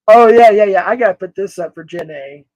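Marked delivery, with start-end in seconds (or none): none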